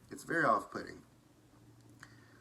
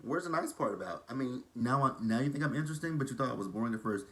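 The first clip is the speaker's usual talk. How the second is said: sassy clapback; 3 semitones higher than usual. Pretend. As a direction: pretend you're calling out a backhanded compliment. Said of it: "I would have been like".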